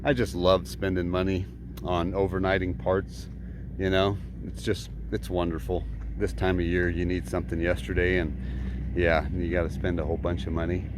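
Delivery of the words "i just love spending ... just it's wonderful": understated deadpan sarcasm; sarcastic. Acted. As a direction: feign delight in a dry, subdued voice. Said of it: "I'm being sarcastic".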